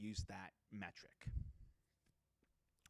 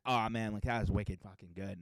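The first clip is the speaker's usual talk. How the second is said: put-on louder, casual Boston accent; 7 dB louder than usual. Chatting to coworkers at the office, in a loud Boston accent. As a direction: let the Boston accent slip out loudly. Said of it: "you just sound like you're from Boston".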